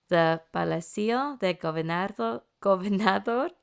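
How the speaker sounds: Palacio de Gobernador in an American accent; american accent spanish. Real, not acted. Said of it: "I preemptively apologize for my Spanish pronunciation".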